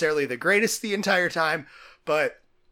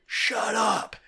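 imitated referee's bark, pitched up; retold bark; 7 semitones higher, much slower than usual. Referee turns to the jawing team, barking. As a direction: bark it like a ref silencing players. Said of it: "he barks at him".

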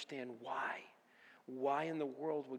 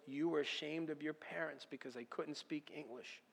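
soft, hushed fatherly correction; God gently showing him the truth; gentle voice of God; 7 dB quieter than usual. Retold or imitated. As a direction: explain it quietly like a patient father. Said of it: "He goes".

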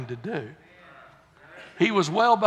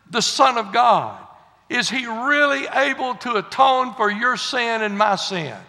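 solemn scripture reading; slower than usual. Acted. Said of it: "I'll just read it to you".

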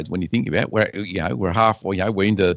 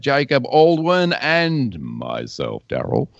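announcer read. Acted. Reads podcast intro.

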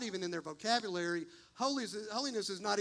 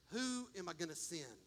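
softer, lower, almost to yourself; hushed call; 4 semitones lower, 9 dB quieter than usual. Acted. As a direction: ask it softly, lower. Voicing God softly then plainly.

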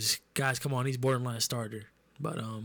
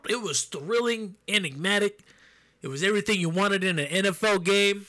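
announcer voice; 6 semitones higher, 4 dB louder than usual. Pretend. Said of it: "do I sound like an announcer right now?".

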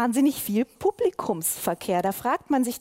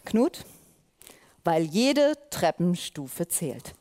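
theatrical; 4 semitones lower, slower than usual. Acted. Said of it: "Ich hab's ein bisschen gerne so theatralisch".

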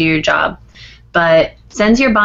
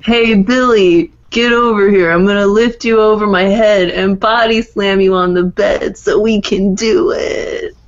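lightly voiced wrestler wife. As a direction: order him over like a wrestler, lightly hammed-up. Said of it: "Guess what character I'm being".

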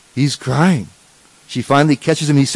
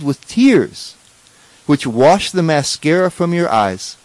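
reverent prayer. Retold or imitated. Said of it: "she says".

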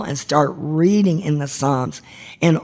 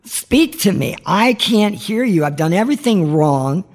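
crying out to God; 5 semitones higher than usual. Retold or imitated. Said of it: "I am crying out to the Lord".

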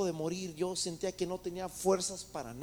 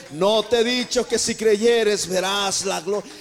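much louder, slow, insistent repeat of the question; booming repeat; 11 dB louder, slower than usual. Acted. Jesus pressing Marta to believe, booming and slow. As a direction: thunder it out the second time.

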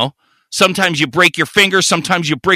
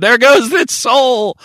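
mock solemn farewell; 7 semitones higher, slower than usual. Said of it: "I said".

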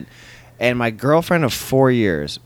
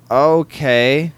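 taken aback; 5 semitones higher, 4 dB louder than usual. Retold or imitated. Acted reply to hostile stranger.

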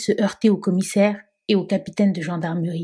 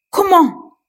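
Comment? pitched much higher, squeaking with disbelief; rising disbelief; 10 semitones higher, 6 dB louder than usual. Acted. Police chief repeating his question, high-pitched disbelief. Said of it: "n'en croyait pas ses oreilles".

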